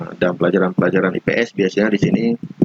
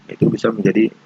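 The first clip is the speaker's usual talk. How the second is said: fan noise behind the voice; talking right next to a whirring fan. Real, not acted. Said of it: "terlalu dekat dengan kipas angin".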